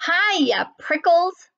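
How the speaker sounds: high, loud, peppy hail; bouncy high-pitched call; shouted greeting. A narrator's reading. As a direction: shout a cheeky hello in passing. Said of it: "she shouted".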